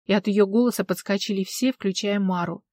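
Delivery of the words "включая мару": ordinary delivery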